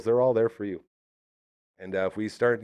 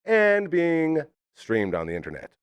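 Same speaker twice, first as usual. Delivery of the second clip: radio announcer intro; 3 semitones higher than usual. Acted. Opening announcement of the show.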